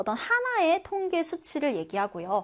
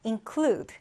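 include with the stress on CLUDE; stress on second syllable; 2 semitones lower than usual. Shown as a demonstration. Teacher modelling include for learners, second-syllable stress. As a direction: lean on the last syllable of include. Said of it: "뒤듬절의 강세를 두고요".

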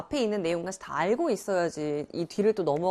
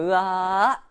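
drawn-out mock strain at usual pitch; effortful blocking groan; 4 dB louder, much slower than usual. Shown as a demonstration. Teacher shows how she stops rising anger, effortful groan. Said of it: "이렇게 막는 거지".

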